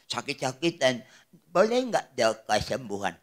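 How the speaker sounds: put-on low, soft old person's plea; elderly Popo. Eighty-nine-year-old asking the pastor for healing prayer, frail. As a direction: ask weakly, like someone very old.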